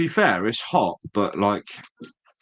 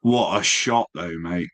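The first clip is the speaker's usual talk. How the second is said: a rush of praise for the photo; admiring. Real, not acted. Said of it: "I still would have said".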